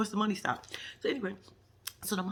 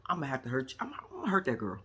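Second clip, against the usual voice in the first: low threat; 4 semitones lower, 5 dB quieter than usual. Retold or imitated. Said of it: "I was like".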